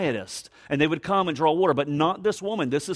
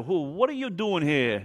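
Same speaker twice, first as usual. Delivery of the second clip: hammed-up New York accent; light mock New York accent, questioning. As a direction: try it as a New Yorker. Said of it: "I wonder if she had a New York accent".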